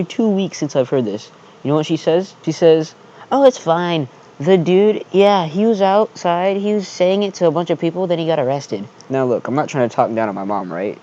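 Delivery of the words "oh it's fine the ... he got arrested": high, light, breezy mom voice; imitating mom's voice. Son imitating his mom telling him it's fine, high and breezy. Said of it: "that's kind of like the voice that she has".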